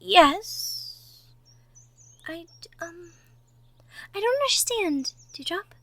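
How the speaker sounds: gentle, hushed ASMR character voice, often whispering; soft-spoken roleplay girlfriend. Acted. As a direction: talk softly to the nervous listener.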